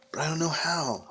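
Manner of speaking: high squeak; squeaky voice. Acted. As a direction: squeak it out timidly. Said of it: "I squeaked".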